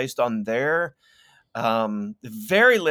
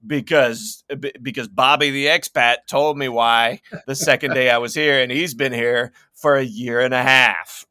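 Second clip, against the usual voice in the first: loud, self-assured mock explanation; mock know-it-all; 7 dB louder than usual. Newcomer citing Bobby the expat as authority, mock-confident. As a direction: play someone naively sure of their answer.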